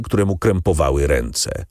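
ordinary delivery

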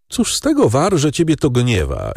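high whiny groan of a complaint; a plaintive high moan, half sigh. A narrator's reading. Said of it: "jęknął Mochyński".

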